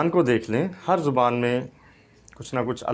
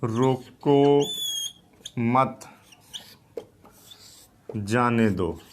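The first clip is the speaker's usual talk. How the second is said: "रोको", "मत", "जाने दो" each set apart by long pauses; words set apart; much slower than usual. Shown as a demonstration. Teacher reads out the note from the checkpost, "रोको", "मत", "जाने दो" spaced apart. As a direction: read "रोको मत जाने दो" out piece by piece. Reading an unpunctuated note slowly.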